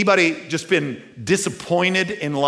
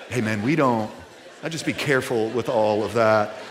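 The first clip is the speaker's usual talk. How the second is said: nervous caution; 6 semitones lower than usual. Retold or imitated. Mimicking a nervous group member.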